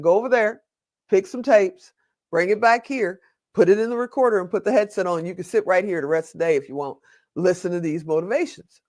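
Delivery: a hint of a Southern lady giving friendly instructions; Southern accent. Librarian explaining the tape recorder, light Southern accent. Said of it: "she had this Southern accent".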